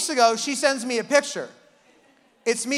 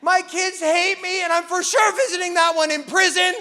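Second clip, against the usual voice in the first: despairing parent; 5 semitones higher than usual. Retold or imitated. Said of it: "you're like".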